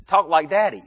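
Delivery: a hint of a small girl pleading; imitated little daughter. Daughter asking Dad to drop the puppet voice, lightly imitated child. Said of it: "is what she would say".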